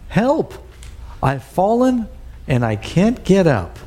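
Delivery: high, mock cry of a fallen old person; hammed-up call for help from the floor. An old person on the kitchen floor, a mock cry for help. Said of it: "they're calling out".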